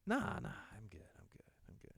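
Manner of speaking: put-on whispered, slurring drunk brush-off. Drunk friend waves off help in a whisper. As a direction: breathe it out like a drunk lying in a fern. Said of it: "And he's like".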